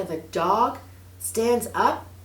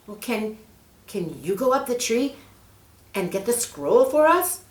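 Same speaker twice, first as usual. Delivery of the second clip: put-on higher, louder hopeful girl; girl Mary; 5 semitones higher, 4 dB louder than usual. Mary asks the snake for help, eager. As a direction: ask sweetly and eagerly.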